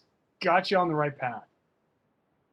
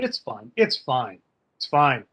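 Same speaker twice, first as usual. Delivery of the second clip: building insistence; 4 semitones lower than usual. Acted. Repeats, shrugging off the joke.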